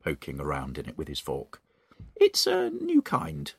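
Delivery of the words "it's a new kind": much higher, slow sly voice; Mrs Twit. Acted. Mrs Twit fooling her husband, high slow sly coo. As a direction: coo it sweetly to hide the trick. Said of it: "Missus Twit said".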